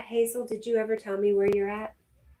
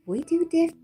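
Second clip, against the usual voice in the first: Southern country voice; 11 semitones higher, 7 dB louder than usual. Pretend. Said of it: "no, try it again".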